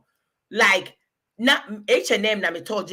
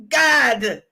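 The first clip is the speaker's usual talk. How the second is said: laughing; 2 semitones higher, slower than usual. Real, not acted. Laughing outburst about her age.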